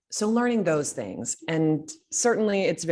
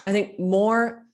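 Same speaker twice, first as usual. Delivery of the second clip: hungry villain; 4 semitones higher, 6 dB louder, slower than usual. Retold or imitated. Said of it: "I can't remember what it was".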